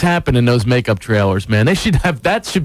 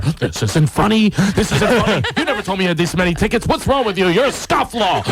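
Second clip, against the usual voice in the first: mock scolding, rising higher; retold yelling; 4 semitones higher than usual. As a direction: imitate a wife telling off her husband. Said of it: "She starts yelling at me".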